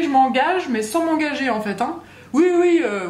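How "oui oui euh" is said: high, loud, overeager yes yes; mock eager yes. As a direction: toss off a fake eager agreement. Mocking a noncommittal partner.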